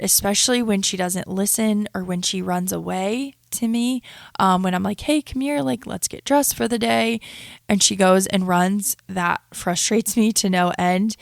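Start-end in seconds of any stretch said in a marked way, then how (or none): 5.0-7.2 bright mock call to her little girl, pitched up; calling to toddler. Mom calling her toddler to get dressed, pitched up. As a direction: sing out to the child to come get dressed.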